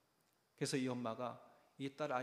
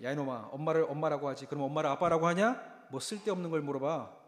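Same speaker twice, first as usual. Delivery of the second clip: 짜증 흉내; 6 dB louder than usual. Retold or imitated. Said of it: "아빠가 짜증내면서 얘기하는 거예요".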